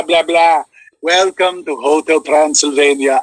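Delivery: slow, a hint of the movie Dracula. Voice actor shows his Dracula match, slow welcome. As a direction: greet guests at the hotel, lightly. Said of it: "I've done some Drac work".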